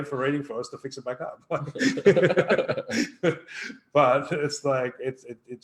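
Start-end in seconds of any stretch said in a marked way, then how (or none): 1.4-3.9 loud real laugh, higher and louder; hearty laugh. Real, not acted. Host cracking up after joking about paid readings, loud laugh. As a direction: burst out laughing at the joke.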